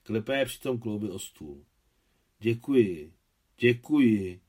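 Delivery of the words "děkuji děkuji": louder, heartfelt gratitude; moved, touched. Acted. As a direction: give thanks with emotion. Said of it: "říkal dojatě Adam".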